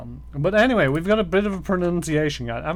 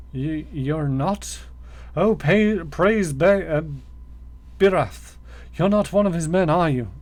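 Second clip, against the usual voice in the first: relieved captive; 3 semitones higher, 3 dB louder than usual. Acted. Relieved captive praising his god.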